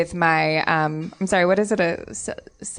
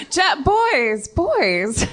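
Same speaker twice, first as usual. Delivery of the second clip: playful placating; 9 semitones higher, much slower than usual. Acted. Lady placating angry armed guards.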